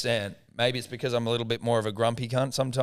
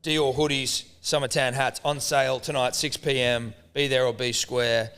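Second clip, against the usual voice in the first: quick hyped plug for hoodies and hats; jokey merch announcement to the listeners; mock ad read. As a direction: sell it like a cheesy radio promo. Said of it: "mock ad plug".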